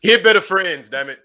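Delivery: loud, high cranky grandpa yelling. Pretend. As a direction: holler it like an old grandpa. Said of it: "hit y'all with the grandpa voice".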